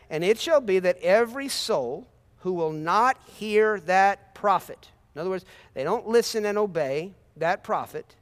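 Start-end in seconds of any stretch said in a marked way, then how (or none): 0.1-4.9 slow emphatic reading. Shown as a demonstration. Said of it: "rereading verse slowly".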